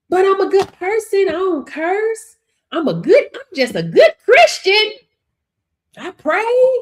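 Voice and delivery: high-pitched mock self-justification; exaggerated high protest, rising at the ends. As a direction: imitate a good Christian pleading their case. Mocks the excuses of struggling believers.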